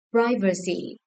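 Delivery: "Privacy" with the opening syllable stressed; stress on first syllable. Shown as a demonstration. Teacher checking stress answers with class, first-syllable stress on "Privacy". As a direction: lean on the "Pri" of "Privacy". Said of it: "The first syllable".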